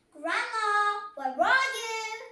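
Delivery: high, loud sing-song call. A narrator's reading. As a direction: call out across the house. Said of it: "shouted Little Red Riding Hood".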